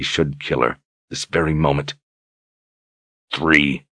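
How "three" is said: growled. Acted. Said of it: "Brogan growled".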